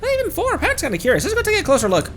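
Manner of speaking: bubbly little guide, curious about the ruins; high fairy companion voice. Acted. Companion urging the traveler toward the tower, high and chirpy. Reading companion lines aloud.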